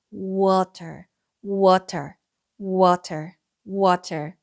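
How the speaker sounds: water said low, repeated; model word. Shown as a demonstration. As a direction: say water clearly for students. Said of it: "물이라는 뜻의". (낮고 또렷한 water)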